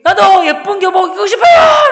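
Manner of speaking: high, loud, drawn-out wail of a shout; impulsive yell. Retold or imitated. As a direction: blurt it out at full volume. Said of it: "라고 소리 지르다가 참았어요". (자기도 모르게 내지르는 고함)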